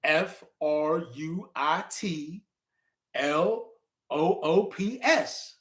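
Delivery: slow spelling. Shown as a demonstration.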